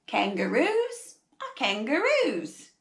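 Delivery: attempted Australian storybook voice; Australian accent. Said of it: "trying really hard to do an Australian accent".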